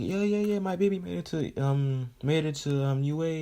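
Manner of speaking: high-pitched, gushing excited mother; acted motherly excitement, pitched well up; excited mom. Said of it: "excited and all of that".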